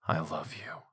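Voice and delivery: soft whispered I love you; whispering. Acted. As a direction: breathe it out softly. Repeated confession, whispered.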